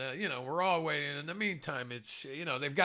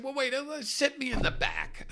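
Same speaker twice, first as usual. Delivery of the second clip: pleading; 10 semitones higher, 3 dB louder than usual. Retold or imitated. Pleading to stay.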